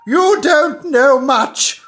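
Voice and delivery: put-on high, quavering old duchess; frail withering duchess. Duchess voiced.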